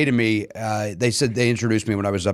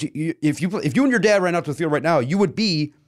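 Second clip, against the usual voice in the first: building excitement; 7 semitones higher than usual. Retold or imitated. Quoting advice, rising excitement.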